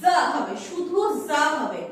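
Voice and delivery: "জ" alone, with no C sound before it; silent C. Shown as a demonstration. Teacher explaining the odd spelling of czar, silent C. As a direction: stress "জ" as the only opening sound. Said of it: "উচ্চারণটা একটু অন্যরকম আসবে".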